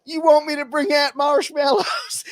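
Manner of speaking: high, bright teasing offer; cheerful preacher. Retold or imitated. Preacher jokes to cross-burning Klansmen, high cheerful tease. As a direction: play it innocent and sunny. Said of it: "He's like".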